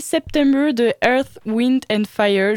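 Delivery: slow, heavy French accent on "Earth, Wind and Fire"; bad French-accented English. Real, not acted. Host announcing a song, in a self-mocking French accent. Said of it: "mon accent anglais est nul à chier".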